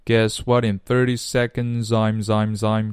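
"seconds, I'm" joined with the s carried over; linked speech. Shown as a demonstration. Teacher drills the link, "seconds, I'm" joined up. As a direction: run "seconds" straight into "I'm". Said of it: "连读".

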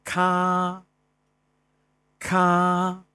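咔 sounded out high and drawn; 咔 said slowly as a sample sound; sounding out words. Shown as a demonstration. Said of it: "今天推荐的声母".

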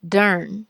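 dern with a clear R sound; second syllable alone. Shown as a demonstration. Teacher isolates the syllable dern. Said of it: "所以后面应该读".

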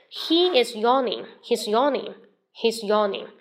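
yawning said clearly in the sentence, slow at first; model yawning. Shown as a demonstration. Teacher models yawning in a sentence. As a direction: repeats He's yawning carefully for copying. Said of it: "比方说他在打哈欠".

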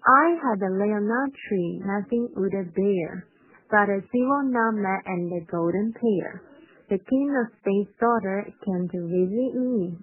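a brisker second read-through for learners. Shown as a demonstration. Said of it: "好，第二遍稍微快一点哈".

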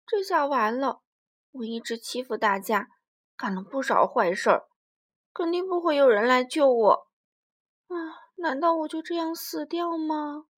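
loud, desperate cry of a trapped bully dinosaur; trapped T-rex fearing death; despairing Tyrannosaurus. Acted. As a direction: wail it like you're done for.

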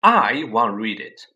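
loud, slow furious retort. A narrator's reading. Harry furiously insists the letter is his. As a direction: bite it out in fury. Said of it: "said Harry furiously".

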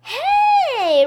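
high, loud attention-grabbing yell; shouting. A narrator's reading. Boy spotting books on the floor, shouting. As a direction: call out sharply to everyone. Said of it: "Ryan shouted".

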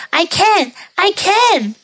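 high, cheeky bragging; gingerbread man voice. Acted. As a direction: brag in a little high voice.

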